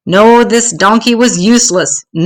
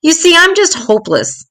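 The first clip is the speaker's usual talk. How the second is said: small donkey voice; 9 semitones higher than usual. A narrator's reading. Donkey pleads in high voice.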